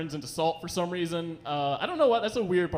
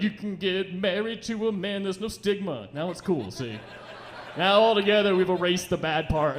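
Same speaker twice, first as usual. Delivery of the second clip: lightly voiced cheerful PSA, barely changed; mock sweet version. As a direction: pitch it as a wholesome ad, half-laughing. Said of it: "I should be like".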